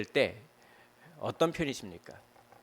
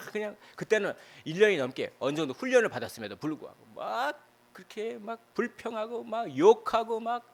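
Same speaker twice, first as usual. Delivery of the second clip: fervent preaching; 8 semitones higher than usual. Acted. Pastor describing despair to the congregation, fervent higher preaching. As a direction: preach it with rising passion. Preaching about the complaining people.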